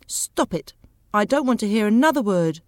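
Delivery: mildly impatient wife; understated irritation. Acted. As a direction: cut him off with a touch of impatience. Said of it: "Daisy said impatiently".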